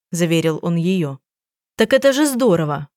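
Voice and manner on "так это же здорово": a bright, much higher glad exclamation; light up with joy at the news; delighted. A narrator's reading. Detective cheers the changed husband, delighted. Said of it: "обрадовалась детектив".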